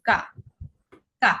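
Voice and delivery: "কা" as an open "kah"; name the letter as "কা", with long "ah"; German letter K. Shown as a demonstration. Teacher showing how K is named, German letter pronunciation. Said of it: "কে কে আমরা বলবো".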